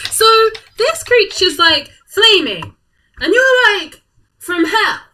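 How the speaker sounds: high, loud, through laughter; real laughter breaking into the question; laughing. Real, not acted. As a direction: ask while cracking up. Laughing while asking question.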